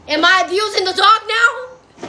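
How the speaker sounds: asked through a laugh; laughing question. Real, not acted. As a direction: chuckle as you ask it. Asks while laughing.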